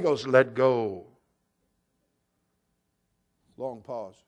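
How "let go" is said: voice of God. Acted. God's command.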